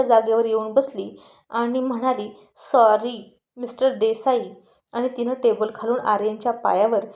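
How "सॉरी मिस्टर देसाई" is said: slow, drawn-out mock sorry; sarcastic apology.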